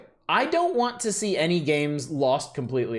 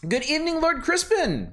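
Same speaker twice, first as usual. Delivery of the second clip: grand greeting; 12 semitones higher than usual. Acted.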